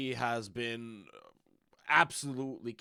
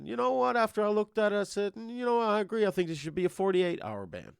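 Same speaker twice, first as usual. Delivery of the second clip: raised, emphatic quoted reply; louder and higher, making the point; emphatic retelling; 10 semitones higher, 5 dB louder than usual. Retold or imitated. Retold reply to staff report.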